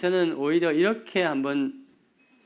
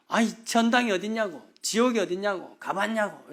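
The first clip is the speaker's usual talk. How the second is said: mildly indignant complaint; retold challenge, voice slightly raised; complaining; 3 semitones higher than usual. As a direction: grumble back at a street preacher. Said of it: "컴플레인을 합니다".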